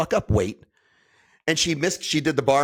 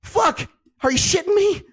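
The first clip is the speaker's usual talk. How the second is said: much higher, louder disbelieving shout; stunned outburst; 4 dB louder than usual. Real, not acted. A man reacting to his wife's squat weight, shocked shout. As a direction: blurt it out in real shock. Hearing wife squats 245.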